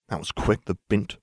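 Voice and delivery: soft, sour grumble under his breath; grumbled. Acted. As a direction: mumble the insult, sulking. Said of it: "Ron grumbled".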